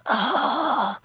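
long, imitated exasperated ugh; dramatic disgusted groan. Border agent seeing the space cat leggings, mock disgusted groan. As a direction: groan as if rolling your eyes. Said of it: "most dramatic eye roll".

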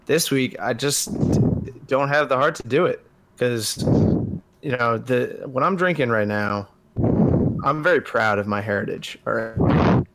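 breathing hard into the mic; heavy breaths between words; heavy nose breathing. Real, not acted. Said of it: "you're breathing a little hard".

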